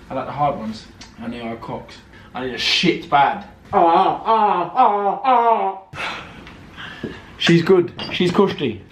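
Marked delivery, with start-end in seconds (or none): 3.7-6.3 short repeated "ah" groans; hammed-up groans. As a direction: groan in a run of ahs, then let it drop away. Groaning about needing the toilet.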